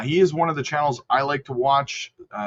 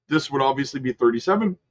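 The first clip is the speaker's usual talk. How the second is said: interrupted by a hiccup; talking through hiccups. Real, not acted. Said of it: "excuse me, got the hiccups".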